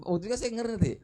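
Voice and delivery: ordinary talk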